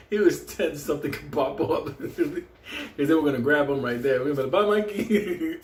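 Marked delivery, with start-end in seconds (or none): 4.5-5.6 high, drawn-out goodbye; mock farewell. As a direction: abandon your friend with a singsong bye. Friends mockingly abandon him in story.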